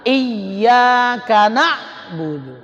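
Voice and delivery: slow Quranic chant, words linked without a break; joined recitation. Shown as a demonstration. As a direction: recite iyyaka na'budu as one connected phrase. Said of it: "ketika dia diwasal". (lantunan tajwid lambat, iyyaka na'budu disambung)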